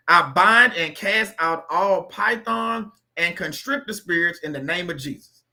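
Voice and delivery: slow, deliberate prayer read aloud. Acted. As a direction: read the prayer slowly so they can repeat. Reads prayers slowly to repeat.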